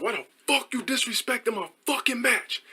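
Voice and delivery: high-pitched retold confrontation; mock indignant challenge, held-back volume; mock pissed-off. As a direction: confront someone in a high put-on voice. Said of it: "I'm just pissed".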